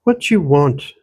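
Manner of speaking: light Irish lilt mixed with Ottawa Valley; old country woman with an Irish-Ontario accent; a hint of an Irish-Valley accent; Irish-tinged rural Ontario accent. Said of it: "she repeated".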